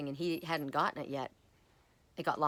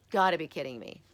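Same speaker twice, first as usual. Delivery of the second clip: louder retold exasperation; retold disbelief; 6 dB louder than usual. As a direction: say it out loud in mock disbelief. Retold reaction repeated louder.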